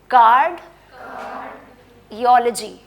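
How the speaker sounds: कार्डियोलॉजी drawn out syllable by syllable, "kar-di-o-lo-ji"; slow model pronunciation. Shown as a demonstration. Teacher to students, repeat after me, slow कार्डियोलॉजी. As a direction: stretch कार्डियोलॉजी out slowly so every syllable is heard. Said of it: "चलें मेरे पीछे बोलें".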